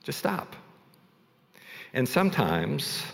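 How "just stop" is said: much higher but soft, pleading just stop; intense. Retold or imitated. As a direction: squeeze it out high and quiet, at wit's end. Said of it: "like, intense".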